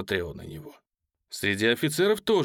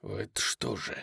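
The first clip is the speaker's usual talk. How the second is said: much softer, low hiss; 3 semitones lower, 8 dB quieter than usual. Acted. Korzhikov hissing at Polezhaev, soft and low. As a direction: hiss it menacingly. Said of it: "прошипел он".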